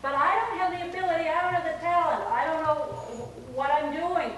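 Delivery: high, loud flustered protest; mock harangue of objections. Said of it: "he puts up this long harangue saying".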